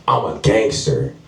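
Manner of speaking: "gangster" ending in a fully sounded R; slow imitation, pronounce the final R of "gangster"; hard R. Guy threatening the comic, "gangster" with a hard R. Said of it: "You said gangster with a hard R".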